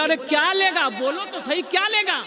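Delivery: hammed-up irritation at the silent boy; angry demand. Bride's father loses patience with the boy, mock-angry. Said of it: "गुस्से से बोला".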